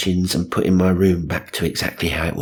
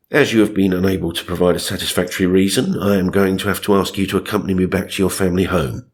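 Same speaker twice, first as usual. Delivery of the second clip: 1 formal policeman; faster than usual. Retold or imitated. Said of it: "said John".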